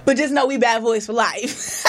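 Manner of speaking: laughing through the words. Real, not acted. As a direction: say it while cracking up. Laughing after joke.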